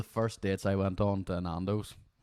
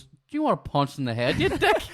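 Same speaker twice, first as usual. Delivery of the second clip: angry; 9 semitones higher, 7 dB louder than usual. Retold or imitated. Angry retort in the story.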